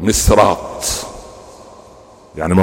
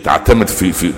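ordinary talk, nothing marked

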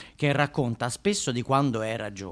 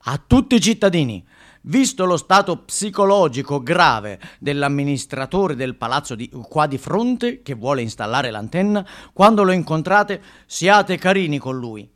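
mock-solemn notice read aloud; 4 semitones higher, 7 dB louder than usual. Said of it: "c'è quest'ultimo, questo è bello".

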